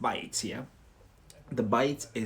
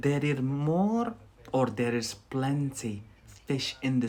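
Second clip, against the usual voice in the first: slow example phrase. Shown as a demonstration. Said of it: "So I would say".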